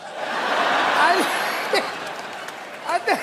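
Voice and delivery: real laughter breaking the words; can't get through it for laughing. Real, not acted. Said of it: "guest breaks up laughing".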